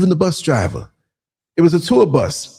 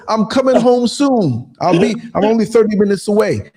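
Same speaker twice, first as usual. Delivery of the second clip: put-on New York accent; 3 semitones higher than usual. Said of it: "I used my New York accent".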